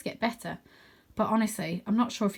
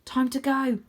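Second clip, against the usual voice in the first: slightly higher urgent call; 5 semitones higher, 3 dB louder than usual. Acted. Rose waking Arthur before dusk, urgent. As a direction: wake him quickly. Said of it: "her voice urgent".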